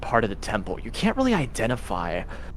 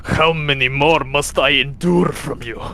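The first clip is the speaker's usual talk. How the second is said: exasperated; 4 semitones higher, 3 dB louder than usual. Acted. Strahd irritated by the questions.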